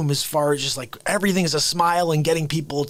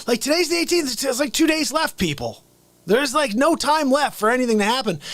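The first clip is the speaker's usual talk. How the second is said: mock high squeal; 10 semitones higher than usual. Comic squeal mid Trump rant.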